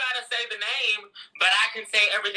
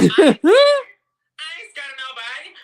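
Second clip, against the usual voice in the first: loud, slow, drawn-out defiance; defiant boast; 3 semitones higher, 9 dB louder, much slower than usual. Acted. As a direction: throw it out like a challenge, slowly. Defiant boast about facing bosses.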